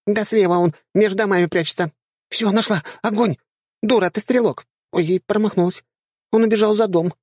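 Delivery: put-on high, squeaky girlish chatter; squeaky dryad. Dryads argue in tank.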